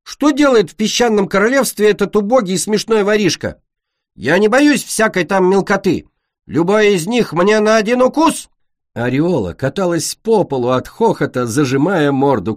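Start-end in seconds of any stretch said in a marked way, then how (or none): 0.0-8.5 higher, louder mock-royal scorn; taunting queen. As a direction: sneer down at a tiny thief.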